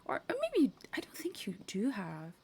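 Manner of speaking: unsure whisper to herself; hushed self-doubt; whispered aside. Real, not acted. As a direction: whisper it, second-guessing.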